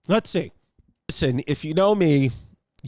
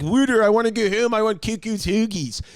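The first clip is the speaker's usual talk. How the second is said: mock a Philly local, stretching the vowels; playful Philadelphia accent impression; Kate Winslet's Philly accent. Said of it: "nail a frickin' Philadelphia dialect".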